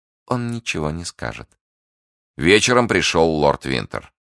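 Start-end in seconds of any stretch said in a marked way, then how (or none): 0.1-1.6 soft, raised, pleased murmur; smiling confidence. Acted. Schemer reassured the guard will keep silent, smiling softly. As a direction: say it softly with a smile. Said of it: "сказала она, улыбаясь".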